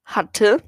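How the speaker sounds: "hatte" set apart after a pause; emphasised, rising "hatte"; stress on HATTE. Real, not acted. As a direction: hit "hatte" on its own with a rising end. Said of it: "Die Betonung liegt auf hatte".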